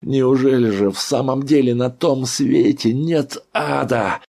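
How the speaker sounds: high, loud choking outcry; patient rages against the door, hoarse; hoarse scream. A narrator's reading. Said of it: "крикнул он сиплым голосом".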